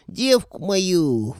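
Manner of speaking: high, loud, very slow howl; roaring ghost. Acted. Wizard learning his girl is taken, roaring. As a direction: roar it in outrage. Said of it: "взревел колдун".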